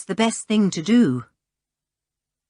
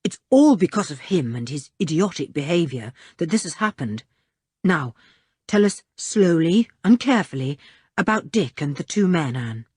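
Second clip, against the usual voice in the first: grim; 2 semitones lower than usual. Acted. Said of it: "said Julian grimly".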